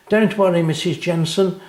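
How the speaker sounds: smiling reassurance. Acted. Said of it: "smiled Anna".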